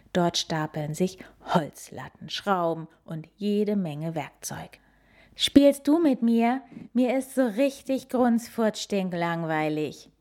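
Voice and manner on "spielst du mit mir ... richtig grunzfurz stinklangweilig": put-on high whiny kid voice; whining child. A narrator's reading. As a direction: whine it like a bored little boy. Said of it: "nölt der kleine Nasenbär".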